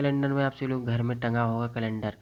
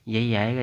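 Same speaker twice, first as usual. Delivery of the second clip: यही said louder with a rise; stress on यही; 4 dB louder than usual. Real, not acted. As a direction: insist that यही will come. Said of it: "इस line को रट के रखो". (यही पर ज़ोर देकर)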